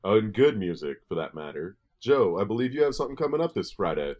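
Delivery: deep segue like a radio presenter. Pretend. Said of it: "whatever radio voice to his real voice".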